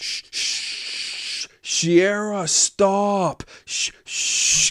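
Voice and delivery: put-on acted drunken shouting. Recounting coming home drunk and hushing the parents' dog, retelling a drunk yell. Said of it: "I'm like yelling at the top of my lungs".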